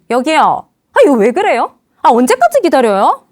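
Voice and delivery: acted irritated complaint; hot-tempered customer. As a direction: demand service impatiently. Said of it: "화끈히 확 나와요".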